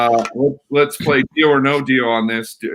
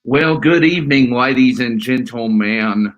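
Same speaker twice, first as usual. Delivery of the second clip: formal announcer voice; 3 dB louder than usual. Pretend. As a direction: roll it out like an old TV host. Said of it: "I don't know why I started talking like that".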